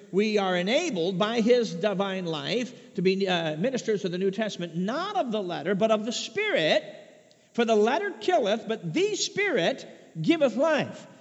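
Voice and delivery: preacher driving a verse home with swelling emphasis; emphatic scripture reading. Acted. Preacher reading the verse to his congregation, emphatic. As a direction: read scripture out with punchy key words.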